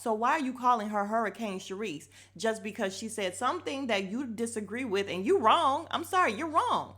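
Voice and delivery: loud, fired-up defending her; heated rant. Real, not acted. Defending Sharice to viewers, loud heated rant. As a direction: rant it, indignant. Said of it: "I was so pissed off by that".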